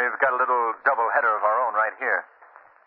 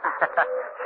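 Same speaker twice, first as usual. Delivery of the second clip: forced laugh; 4 semitones higher than usual. Acted. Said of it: "Laugh, will you?".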